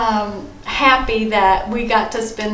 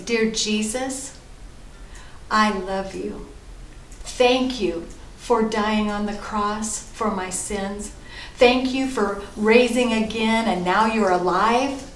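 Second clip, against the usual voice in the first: prayer to repeat. Shown as a demonstration. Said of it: "why don't you pray after me".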